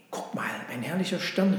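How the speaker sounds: a touch of wonder; exclaiming. Acted. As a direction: draw the others' attention with delight. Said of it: "rief er aus".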